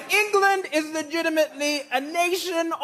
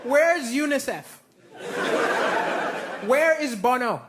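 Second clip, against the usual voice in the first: mock outrage; 4 semitones higher, slower than usual. Mock outrage at English complaints.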